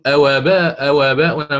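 أو آباؤنا with the همزة shifted onto the واو; نقل الهمزة إلى الواو; hypothetical reading. Shown as a demonstration. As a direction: show the wrong naql reading. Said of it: "سنقول".

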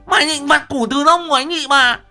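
jealous wife screaming threats with an axe; jealous furious screaming. Acted. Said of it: "Vừa đuổi vừa chửi".

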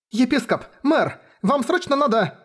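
high, breathless alarm calling out; urgent cry. Acted. Girl bursting into the bishop's office, high urgent alarm. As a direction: burst in crying for help, pitched high.

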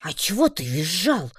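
indignant heroine; indignant retort. A narrator's reading. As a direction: fire it back at the orc. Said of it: "возмутилась я".

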